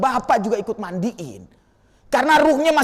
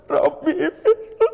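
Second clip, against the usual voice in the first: imitated prayer; 6 semitones higher, slower than usual. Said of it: "udah langsung".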